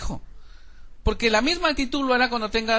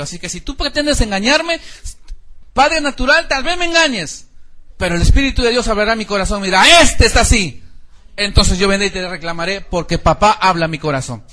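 raised, insistent warning to a son; stern father warning; 6 dB louder than usual. Retold or imitated. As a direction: lay down the law to your son, loud and firm. Pastor scolding son, mock stern.

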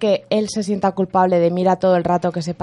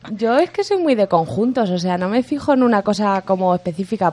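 window down on highway. Real, not acted. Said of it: "cierra la ventana que me voy a volar".

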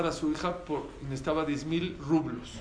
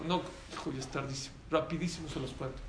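quiet aside; 2 semitones lower, 6 dB quieter, faster than usual. Real, not acted. Father hushing son mid-sermon, quick quiet aside. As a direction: drop the voice to hush your son.

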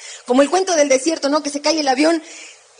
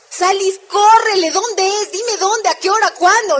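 eager rush; 5 semitones higher, 4 dB louder, slower than usual. Retold or imitated. Calm friend suddenly eager for gold.

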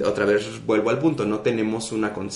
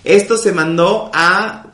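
indignant retort; 7 semitones higher, 5 dB louder, much slower than usual. Retold or imitated. Imitates Flor Rubio's retort.

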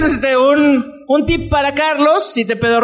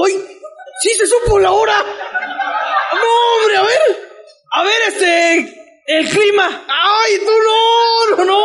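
put-on amazed old parent; 8 semitones higher, slower than usual. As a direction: shriek with delight at a gadget.

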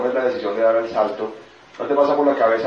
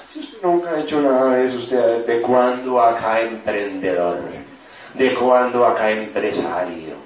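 scornful black wolf. Acted. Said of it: "la voz negra está diciendo".

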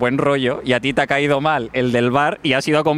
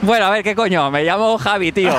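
shouting; 3 semitones higher, faster than usual. Acted. Dropping the act, shouting.

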